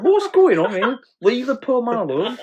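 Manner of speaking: giggling while telling her off; laughing disbelief. Retold or imitated. Narrator retelling his reaction on the bus, laughing. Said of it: "I'm just like".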